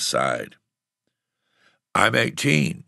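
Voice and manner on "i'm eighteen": put-on offhand young boy, higher; casual. A narrator's reading. Boy tells tramp his age, casually. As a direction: toss it off casually. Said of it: "he said casually".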